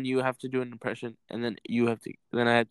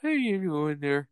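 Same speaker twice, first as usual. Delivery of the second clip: Bubbles impression; 3 semitones higher, 4 dB louder than usual. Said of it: "I'm not good at impressions".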